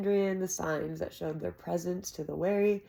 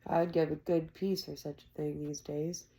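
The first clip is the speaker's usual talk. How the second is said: said darkly. Acted. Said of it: "Shep said darkly".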